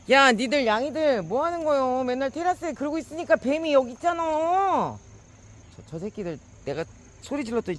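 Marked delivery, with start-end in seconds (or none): 0.1-5.0 high, loud yell at the cats; much higher shout scolding the cats. Real, not acted. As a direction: tell off the lazy cats. Yelling at the cats.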